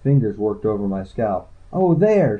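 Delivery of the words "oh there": high gasp of discovery; high-voiced, startled find. A narrator's reading. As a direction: gasp it out, pitched way up. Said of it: "she gasped".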